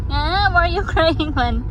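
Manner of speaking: high, loud mock fussing. Real, not acted. Mother asking baby about crying, playful high fussing.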